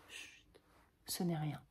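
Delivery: chuchoté, beaucoup plus doux; étouffer sa voix pour que Roxane n'entende pas; tout bas. Acted. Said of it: "Cyrano bas". (murmurer à la sœur pour cacher son mal)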